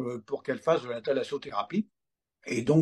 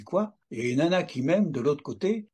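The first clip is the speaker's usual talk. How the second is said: surprised. Retold or imitated. Surprise en entendant anathème.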